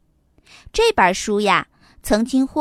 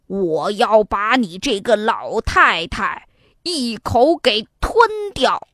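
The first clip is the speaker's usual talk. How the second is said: tiger voice; 3 semitones lower than usual. Acted. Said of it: "大老虎说".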